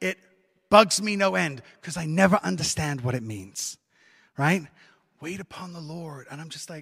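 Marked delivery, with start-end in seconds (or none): 5.2-6.3 very quiet, hushed put-on American accent. Quoting a phrase he never understands: American accent. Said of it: "I don't know why I said it in an American accent".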